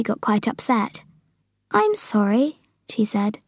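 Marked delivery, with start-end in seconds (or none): 1.7-2.6 higher voice of a contrite Sophie; Sophie apologising. Acted. Sophie to the upset giant, apologetic. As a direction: apologise in a small, high voice.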